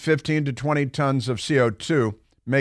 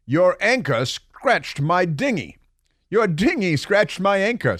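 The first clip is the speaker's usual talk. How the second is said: Rodney Dangerfield; 4 semitones higher than usual. Retold or imitated. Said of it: "my Rodney Dangerfield backward".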